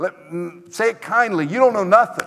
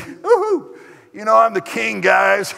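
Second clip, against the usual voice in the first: put-on gloating young king; 4 semitones higher than usual. Rehoboam boasting to young friends.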